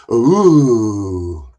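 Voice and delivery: drawn-out mocking "ooh"; Jack's long ooh. Mimicking the host seeing him backstage, mocking ooh. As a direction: imitate a host's long ooh on spotting a guest. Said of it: "Jack went".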